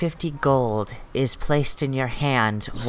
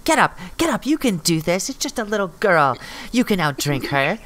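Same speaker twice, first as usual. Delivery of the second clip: encouraging shout; 5 semitones higher, faster than usual. Acted. Patron urges on the drinker.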